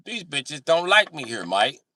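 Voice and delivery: lightly done British friend; British accent. Retold or imitated. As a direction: whine it like a lost Brit. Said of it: "kicked it with British guys".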